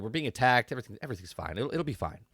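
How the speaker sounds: soft, low, half-swallowed lines; quietly insisting everything's fine; hushed mock reassurance. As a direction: murmur it like you're hiding the danger. Tala voiced, hushed panic.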